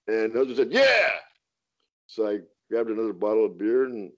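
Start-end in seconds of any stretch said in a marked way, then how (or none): 0.7-1.1 higher clipped mock answer; tossed-off grudging yes; mock curt yes. Husband granting the beer, higher mock voice.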